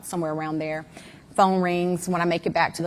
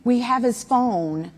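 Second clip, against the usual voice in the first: Warren's words, said louder and slow; loud retelling; 4 semitones higher, 4 dB louder, slower than usual. Retold or imitated. Mom replaying Warren's admission to listeners, loud and slow. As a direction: lean hard on "we have his phone".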